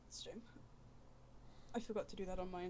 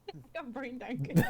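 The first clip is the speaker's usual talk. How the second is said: laughing through the words; laughing mock echo; 4 semitones higher, 12 dB louder than usual. Mocking friend's line, laughing.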